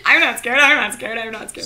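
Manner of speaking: nervous, insisting she's not scared; false bravado. Acted. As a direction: repeat it to calm yourself. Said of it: "cuddling up against, like".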